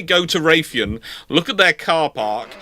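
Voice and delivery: ordinary talk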